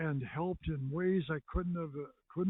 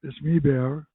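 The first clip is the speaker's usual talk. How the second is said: catchphrase line; 11 dB louder than usual. Shown as a demonstration. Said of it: "saying his line".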